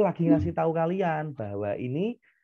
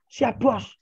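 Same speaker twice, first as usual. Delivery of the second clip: high, louder chirpy reply; child answering her father playfully; cheeky salute; 8 semitones higher, 4 dB louder than usual. Retold or imitated. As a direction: snap back like a saluting cadet. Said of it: "gitu jawabnya".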